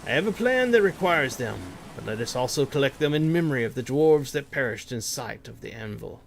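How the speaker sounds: measured storybook read of the quest text. Acted. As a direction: read it like a dwarf's tale, unhurried. Reads quest text aloud.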